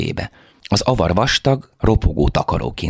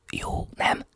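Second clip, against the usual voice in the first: soft whisper into her face; whispered, intimate question; 10 dB quieter than usual. A narrator's reading. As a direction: breathe it close to her. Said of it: "suttogtam az arcába".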